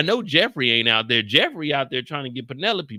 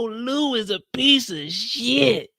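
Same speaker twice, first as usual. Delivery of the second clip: quoting people; 7 semitones higher, slower than usual. Retold or imitated. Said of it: "People were telling me".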